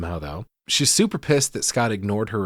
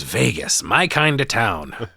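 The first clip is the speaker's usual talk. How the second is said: slow, hammed-up leprechaun one-liner; mock leprechaun catchphrase, drawn out; slower than usual. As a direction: savor it like a showboating leprechaun. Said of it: "And he goes".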